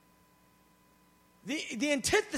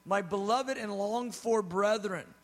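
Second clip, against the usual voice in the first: gushing; 3 semitones lower, slower than usual. Retold or imitated. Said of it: "gushing over them".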